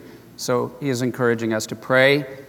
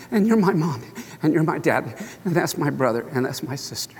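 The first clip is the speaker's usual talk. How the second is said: put-on choked, halting child's list, fading softer; tearfully retold, trailing away quieter; 4 dB quieter, faster than usual. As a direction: imitate a boy just past sobbing, pausing for breath. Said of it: "he's just crying and crying".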